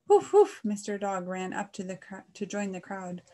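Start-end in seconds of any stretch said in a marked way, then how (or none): 0.1-0.6 very loud, high woofing; dog bark. A narrator's reading. Mister Dog runs to join the crowd, barking loudly. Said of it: "he barked aloud".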